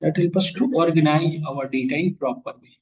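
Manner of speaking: slow, deliberate note-taking pace; slow dictation. Shown as a demonstration. Teacher dictating a definition to the class, slow and even. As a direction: spell it out slowly so they can write it down. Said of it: "ये लिख लो".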